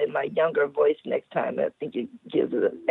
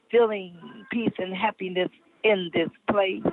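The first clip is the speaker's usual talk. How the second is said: put-on old lady voice. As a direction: read it like a sensual old lady. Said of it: "I'm using my old lady voice".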